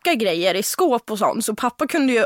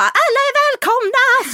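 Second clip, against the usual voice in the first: much higher, louder host cry; welcoming shout; 13 semitones higher, 5 dB louder than usual. Retold or imitated. Drunk teen host welcoming all guests, shouting. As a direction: call out to everyone like an overjoyed host. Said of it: "jag är ju sån som bara".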